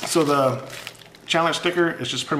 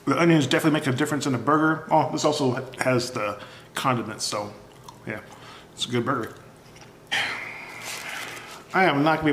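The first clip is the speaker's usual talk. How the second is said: talking between bites; chewing while talking; mouth partly full. Real, not acted. Seen 1: bit burger at -1.0, holds it at mouth throughout words.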